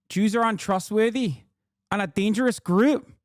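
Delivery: put-on reading a tweet in a clumsy South African accent; South African accent attempt. Streamer reading an Afrikaner's tweet, attempted South African accent. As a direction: try a South African accent, not quite landing it. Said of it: "do my best South African accent".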